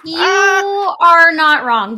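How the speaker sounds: loud, slow, laughing outburst; laughing shout. Real, not acted. Laughing loudly at a co-host's joke about his hair. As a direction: crack up and shout it out.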